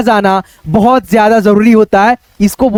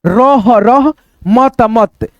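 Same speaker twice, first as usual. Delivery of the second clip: slow, syllable by syllable, with a pause between रह and मत; split into syllables; much slower than usual. Shown as a demonstration. Teacher sounding out रह and मत slowly for pupils. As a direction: say रह then मत slowly, apart. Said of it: "रहमत पढ़ देंगे".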